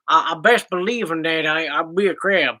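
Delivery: playful Southern twang; mock Southern accent; put-on Southern accent. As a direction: declare it like a Southerner. Playing on in the stuck accent.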